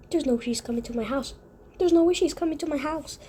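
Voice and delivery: talking with a mouthful of candy; words around chewing gummy bears. Real, not acted. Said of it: "Sorry, I'm chewing gummy bears".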